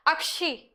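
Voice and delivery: अक्षी with a crisp क्ष in the middle; correct pronunciation. Shown as a demonstration. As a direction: model अक्षी carefully for the class. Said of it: "सही उच्चारण करोगे तो अक्षी बोलोगे". (अक्षी का सही उच्चारण)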